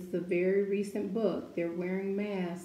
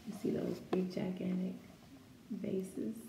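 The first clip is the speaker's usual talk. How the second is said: hushed aside; 6 dB quieter than usual. Real, not acted. Hushed aside about the picture.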